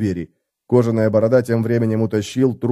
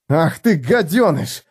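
barked; 5 semitones higher, slower than usual. A narrator's reading. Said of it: "рявкнул Феликс".

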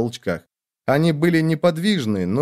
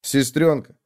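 ordinary delivery

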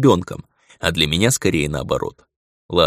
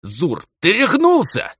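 slow, high, hateful hissed accusation; slow furious hiss; 12 semitones higher, 3 dB louder, slower than usual. A narrator's reading. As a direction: spit it out through clenched teeth. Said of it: "ненавистно прошипел я".

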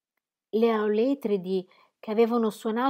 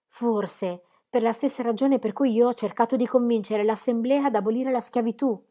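higher and louder, urgent argument; insistent plea; 4 semitones higher, 5 dB louder than usual. Acted. Captive trying to win over the archer, insistent pleading. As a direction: press the point, pleading.

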